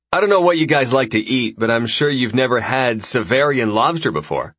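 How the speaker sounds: lightly voiced breezy host; easygoing dinner host, a bit brighter; casual host voice. Raxus hosting dinner.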